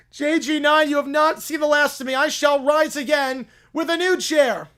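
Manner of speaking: loud, high hammed-up villain vow. Defeated villain vowing revenge on the rival.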